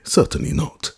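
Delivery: high, huffy refusal; indignant. A narrator's reading. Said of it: "answered Mister Audley indignantly".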